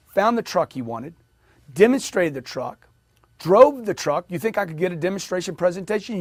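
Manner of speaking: ordinary talk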